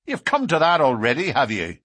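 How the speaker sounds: fast, loud, jealous accusation; angry jeer. A narrator's reading. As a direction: fire the accusation at a rival. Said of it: "said Baldwin with an oath".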